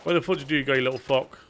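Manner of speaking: put-on playful Northern English accent, not overdone; a hint of a Northern English accent. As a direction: growl it out like a Northern bloke hunting someone down. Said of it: "You actually nailed that, that accent entirely".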